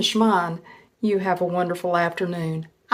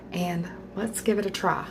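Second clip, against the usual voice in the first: talking through a mouthful; words round a bite of food; mouth full; 14 dB quieter than usual. Real, not acted. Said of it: "trying not to talk with my mouth full".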